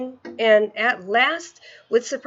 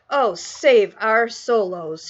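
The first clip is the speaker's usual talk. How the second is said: anguished cry; 4 dB louder, much slower than usual. Acted. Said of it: "he cried".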